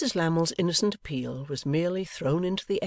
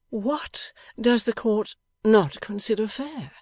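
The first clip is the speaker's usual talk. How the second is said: high, slow, emphatic challenge; propitiatory yet defiant; 8 semitones higher, 5 dB louder, slower than usual. A narrator's reading. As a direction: challenge sweetly with drawn-out words. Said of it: "between her propitiatory bearing there and her defiant bearing".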